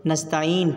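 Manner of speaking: "नस्ताइन" closed on n, "nasta'een"; vowelless final n. Shown as a demonstration. Teacher showing the stop, "नस्ताइन" ending in silent n. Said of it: "हमने जज़्म दे दिया".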